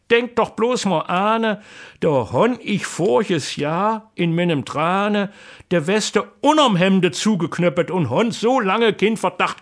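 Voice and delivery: husband admits the vest was under his shirt; sheepish explanation. Acted. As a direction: explain the mix-up with a chuckle in the voice. Husband explains comic mishap.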